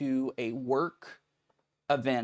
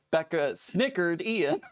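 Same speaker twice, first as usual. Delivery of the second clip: kind gentle laugh; 5 semitones higher, 3 dB louder, slower than usual. Real, not acted. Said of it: "I'm laughing at".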